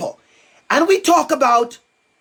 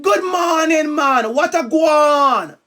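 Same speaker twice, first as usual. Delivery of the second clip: Jamaican greeting; 4 semitones higher, slower than usual. Shown as a demonstration. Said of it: "My accent, or I would say".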